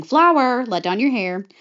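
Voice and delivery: mild calling-out shout, high on the first word; mock shout. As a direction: call up to someone, then ease off. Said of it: "hears Gothel shouting".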